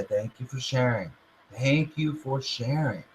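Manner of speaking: soft dismissal. Shown as a demonstration. Answering the doubting ego, softly. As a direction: say it quietly, unbothered. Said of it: "You just say".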